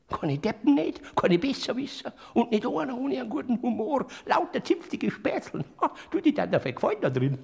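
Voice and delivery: loud excited praise of the blessed; hearty enthusiasm. Acted. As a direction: boast about them with relish. Enthusing about heaven's people.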